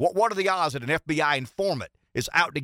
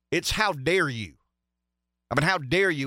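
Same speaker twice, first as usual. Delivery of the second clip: usual speaking voice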